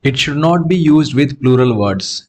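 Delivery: reads the rule out very slowly; slow rule reading. Shown as a demonstration. Teacher reading the grammar rule aloud slowly to students. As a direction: dictate the rule word by word.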